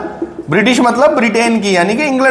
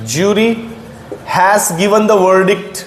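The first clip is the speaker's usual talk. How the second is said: slow dictation; much slower than usual. Shown as a demonstration. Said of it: "मैंने बोला".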